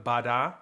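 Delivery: "ba da" said as two separate strokes, wide apart; "ba da" sung as two clearly separate hits; too open flam. Shown as a demonstration. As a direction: space out "ba da" to show a flam played too open. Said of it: "not too open".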